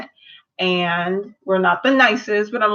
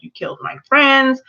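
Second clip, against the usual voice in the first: mild mock outrage, pitched higher; retold anger; 5 semitones higher than usual. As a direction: play Tulip lightly indignant at her friends' killer. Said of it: "And Tulip is mad".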